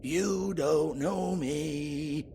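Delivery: slow, drawn-out mock tough-guy voice; mocking a gruff loner. Pub owner mocking the sheriff's brooding reply, slow mock growl. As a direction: parrot him back as a brooding lone wolf. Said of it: "mysterious lone wolf".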